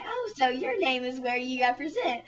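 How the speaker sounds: lightly acted sudden realisation; pageant questioner. Questioner connecting the contestant's name and state, mock amazement. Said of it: "And then they'd say".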